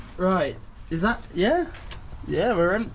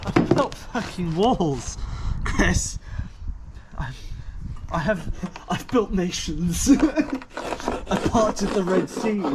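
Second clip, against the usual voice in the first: grandiose mock boast; 3 semitones higher, much slower than usual.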